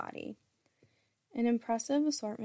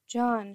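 frustrated groan; 2 semitones higher, 7 dB louder than usual. A narrator's reading. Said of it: "she groaned".

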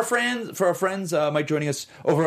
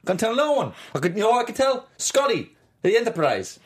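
raised-pitch playful Scottish; Scottish accent; 3 semitones higher than usual. Pretend. Cohost answers partner's lad and lass teasing in mock Scottish. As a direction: keep riffing in mock Scottish. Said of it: "I've never done Scottish before".

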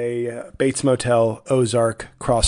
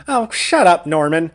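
mother voice; 5 semitones higher, 6 dB louder than usual. Retold or imitated. Mocking mother voice.

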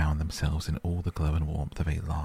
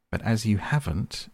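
unkind interruption; 5 semitones higher, 4 dB louder than usual. A narrator's reading. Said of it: "interrupted the rat rather unkindly".

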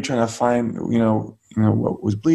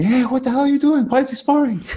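much higher, louder mock yell at the coach; imitating a furious brother, pitched way up; retold angry yelling; 14 semitones higher, 3 dB louder than usual. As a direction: bark it out like an angry older brother catching a rule break. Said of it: "yelling at me".

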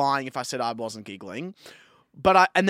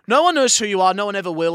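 heated telling off; 4 semitones higher, 5 dB louder than usual. Real, not acted. Telling David off.

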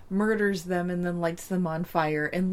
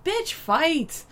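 exasperated command; 7 semitones higher than usual. Acted. Acts yelling at the film victim.

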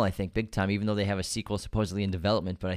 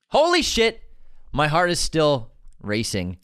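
big high loud opener, then a slow breathless finish; thrilled review; 4 semitones higher, 4 dB louder, slower than usual. Retold or imitated. Reviewer reading his racing-movie verdict, high loud burst then slower. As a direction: blurt it like you just left the track. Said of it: "My review is".

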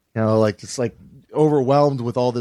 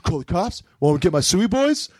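put-on slightly raised surfer kid voice; 4 semitones higher than usual. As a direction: lightly imitate a surfer kid offering backup. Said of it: "that surfer kid that was always".

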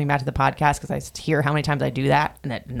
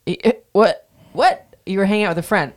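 mock disbelief; 4 semitones higher than usual. Host imitating Nick Viall catching Sandoval's excuse, mock shock. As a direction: act out a stunned double take. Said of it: "And he goes".

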